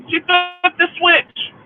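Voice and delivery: loud, slow and high, each word hammered; angry. Real, not acted. Ranting to listeners about the sister, loud and slow. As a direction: spit out the betrayal slowly.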